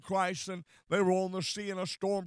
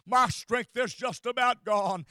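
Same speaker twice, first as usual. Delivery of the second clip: anguished prayer. Retold or imitated. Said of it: "cried within your soul and said".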